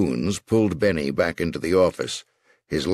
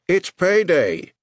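high, slow, triumphant announcement; gangster proclaiming; 12 semitones higher, 4 dB louder, slower than usual. Acted. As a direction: draw it out like a boss collecting debts.

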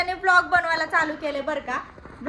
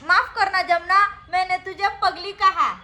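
higher, playful filmi plea; hammed-up reel dialogue; 4 semitones higher, 4 dB louder than usual. Aunt prompts nephew with reel dialogue, hammed-up. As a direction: act out a mock apology for the child to copy.

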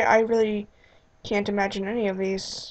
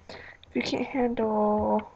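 slow breathy whisper on "If you can't handle"; secretive slow whisper; whispered slowly; 5 dB quieter, slower than usual. Shown as a demonstration. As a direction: drop to a slow hush.

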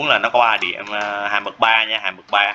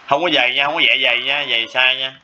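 teacher warns the class not to draw thick lines, raised firm voice; firm warning; 4 semitones higher than usual. Real, not acted. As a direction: raise the voice to warn students off a mistake.

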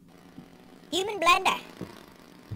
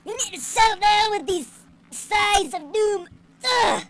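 put-on high-pitched grumpy old-man voice; mock cranky old man; 6 semitones higher than usual. Old man trying to go for a walk, mock cranky. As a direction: play a crotchety old geezer, high and scolding.

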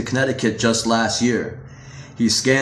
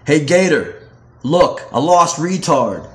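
jeering taunt; 4 semitones higher, 4 dB louder than usual. Acted. Preps taunting the new kid.

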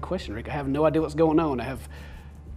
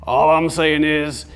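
put-on Rick's Georgia accent; 3 dB louder than usual. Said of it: "give him Rick's accent too".

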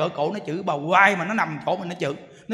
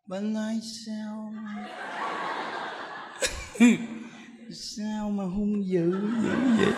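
put-on meek old woman; 6 dB quieter, slower than usual. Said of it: "nhà Đức nói nè".

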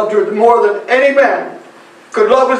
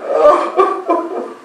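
regretful sobbing; 4 semitones higher than usual. Acted. Man regretting he left her, sobbing. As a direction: burst of higher-pitched sobs.

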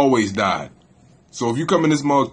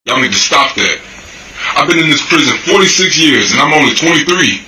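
the warning pushed out louder; louder take; 7 dB louder than usual. Acted. Warning young people off prison, louder. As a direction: hit the same lines with more force.

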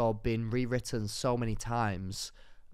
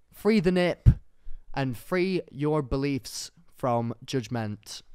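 rousing speech; slower than usual. Pretend. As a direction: deliver it like a protest slogan. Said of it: "I've been practicing that speech".

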